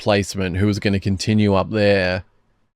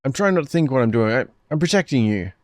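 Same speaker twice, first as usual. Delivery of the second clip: higher, strained pleading and snapping; frantic standoff; 5 semitones higher than usual. Acted. Girls and Sister Etsuko argue at gunpoint, strained and high. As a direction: voices cracking under the gun.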